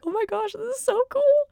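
thrilled, starry-eyed exclamation; excited gush. Retold or imitated. To herself in the theater, a high excited gush. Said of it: "got me all emotional".

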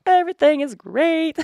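high, loud, stretched-out declaration; overdone cheer. Retold or imitated. Exhausted mom heads out to work, forcedly cheerful. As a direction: put on bright bravado, hammed up. Retold brave front on trip.

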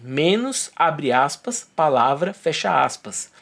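spelling out symbols one by one; dictating. Shown as a demonstration. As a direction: read the syntax like dictation. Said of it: "conteúdo com a palavra que esteja entre".

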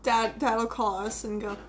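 normal talking voice

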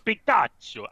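Pikachu said high and loud, Italian pee-kah-choo; Italian-style Pikachu. Shown as a demonstration. Correcting friends, says Pikachu the Italian way, pee-kah-choo. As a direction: proudly sound out Pikachu the Italian way. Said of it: "I'm Italian".

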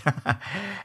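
a short, soft breathy laugh. Real, not acted. Host laughing while telling listeners about Jamaica. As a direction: chuckle quietly to yourself. Recalling his first visit as tourist.

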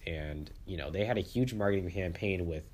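stuffy nose from the flu; sniffling. Real, not acted. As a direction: talk through a sniffly nose. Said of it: "I'm sorry about the sniffling".

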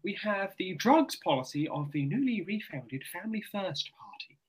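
put-on RP accent. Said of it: "I'm in best R P voice I can".

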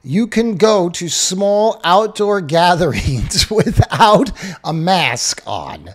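slow, stifled laugh breaking through; trying not to laugh. Real, not acted. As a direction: hold back a laugh mid-sentence. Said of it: "I'm trying not to laugh".

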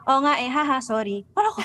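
sheepish giggly sorry; nervous laugh. Retold or imitated. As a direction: giggle through the apology. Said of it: "feel na feel ko yung giggle mo".

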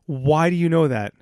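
"Why do you know that", slow and loud; incredulous emphasis. Real, not acted. Teasing co-host over girl-group knowledge, slow emphatic "Why do you know that". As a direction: spell out "Why do you know that" slowly, pressing each word.

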